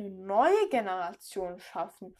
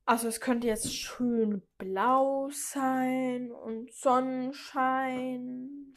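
dreamy; 2 semitones higher, much slower than usual. Real, not acted. Dreamy wish for blue sky.

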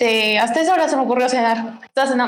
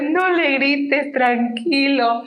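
tag; 2 semitones higher, much slower than usual. Retold or imitated. Retells calming down shouting father.

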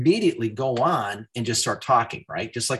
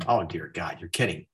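reluctant dismay; 6 semitones lower, 4 dB quieter, faster than usual. Retold or imitated. Balking at wife's order to redo it.

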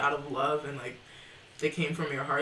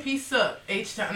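quoting a singer; 5 semitones higher, 3 dB louder, much slower than usual. Retold or imitated. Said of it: "it is the singer".

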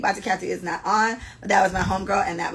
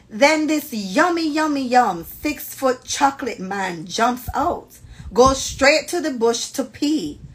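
slow, higher-pitched, savoring narration; relishing story reading; 5 semitones higher, 4 dB louder, much slower than usual. Acted. Host reading friend's description of a man, savoring it. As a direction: draw out each description with relish.

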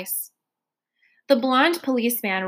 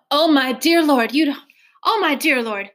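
near-cursing dismay; 4 semitones higher than usual. Acted. Trotter dismayed that Gilly won't come home, exclaiming. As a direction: cry out to the Lord in dismay. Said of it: "closest to cursing".

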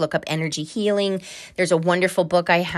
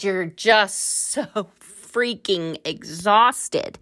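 exhausted; much slower than usual. Retold or imitated. Exhausted seeker, dragged out.

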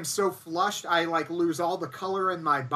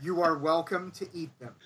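clenched teeth; 4 semitones lower than usual. Retold or imitated. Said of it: "talking through clenched teeth".

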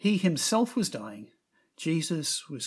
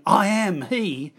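"I am he" slow and louder, each word weighted; forceful declaration; 4 semitones higher, 6 dB louder, slower than usual. Acted. Jesus answering the arresting soldiers, slow and weighty. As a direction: land "I am he" slowly, every word heavy. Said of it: "so blasphemous to Jewish ears or so forceful".

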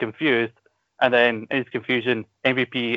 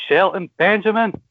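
ring announcer call; 8 semitones higher, 3 dB louder than usual. Retold or imitated. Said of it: "and then you hear".

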